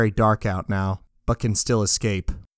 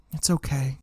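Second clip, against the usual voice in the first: reassuring; 3 semitones higher than usual. Acted. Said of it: "My friend says to my back".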